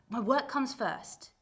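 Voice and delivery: slow emphatic declaration; slow and firm. Acted. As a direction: lay it down slowly, final word. Refusing mother on phone.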